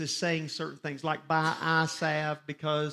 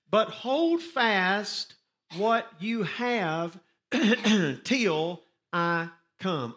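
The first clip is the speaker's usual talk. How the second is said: scripture reading. Acted. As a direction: drive home hold fast. Reads scripture aloud to congregation.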